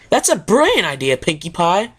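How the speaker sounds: lightly voiced cheerful tomboy pony; a touch of eager praise; brightened Rainbow Dash. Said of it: "Rainbow Dash brightened".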